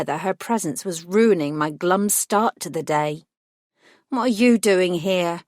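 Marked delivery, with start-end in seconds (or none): 4.1-5.4 tense words through gritted teeth. Acted. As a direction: force it through clenched teeth. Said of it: "I said through gritted teeth".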